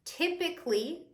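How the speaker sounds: "Typically" pitched high and drawn to a rise; high, emphatic "Typically"; stress on Typically. Shown as a demonstration. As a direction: lean hard on "Typically" as a caveat. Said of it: "saying typically in emphasis on the typically".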